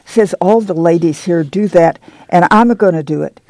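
put-on a young mother telling Ma of the camp, bubbling with excitement; excited girl. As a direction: let the words bubble out, eager and quick. Excited girl's long speech.

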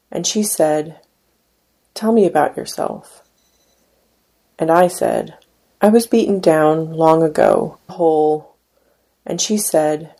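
measured, unhurried poetry reading; poem reading. Acted. Poet reading his poem to an audience, measured. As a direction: read each line as a spoken poem.

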